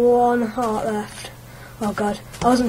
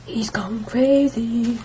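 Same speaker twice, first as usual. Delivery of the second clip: viewer's remark; much slower than usual. Retold or imitated. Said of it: "A bit like".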